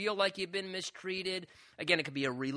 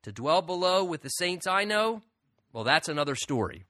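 quoted rhyme; 5 dB louder than usual. Retold or imitated. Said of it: "one man said this".

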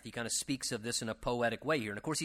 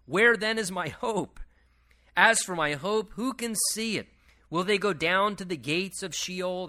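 raised, emphatic Bible reading; declaimed scripture, pitched up; 5 semitones higher, 5 dB louder than usual. Acted. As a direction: read the verse out with rising force. Reads scripture aloud to the congregation.

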